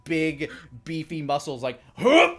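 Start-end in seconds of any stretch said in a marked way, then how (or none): 1.9-2.3 high, loud startled grunt; startled yelp. Acted. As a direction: yelp as you get knocked. Sailor banged against ship.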